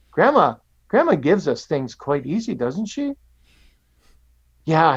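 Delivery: put-on gentle storyteller voice for little kids; telling a story to children. Shown as a demonstration. Pastor telling children a cookie story, gentle and lively. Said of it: "I'll say it like I'm saying it to children".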